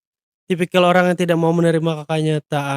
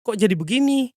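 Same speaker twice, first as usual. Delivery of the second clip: panicked; 4 semitones higher than usual. Acted.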